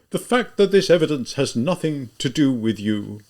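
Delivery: lightly voiced pompous gentleman; condescending, mildly self-important; imposing voice. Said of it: "he exclaimed in an imposing voice".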